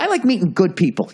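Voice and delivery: mock repeat. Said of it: "what the fuck does that mean?".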